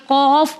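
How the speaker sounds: قوف said with rounded lips and a full back q; round-mouthed qaf. Shown as a demonstration. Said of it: "ہمارا منہ گول ہو جائے گا".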